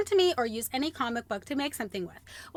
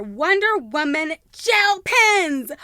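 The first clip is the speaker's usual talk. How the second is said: slow, loud delighted reading; loud and slow, thrilled; 3 semitones higher, 7 dB louder, much slower than usual. Real, not acted. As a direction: savour each word with glee. Unboxing, drawn-out delighted reading.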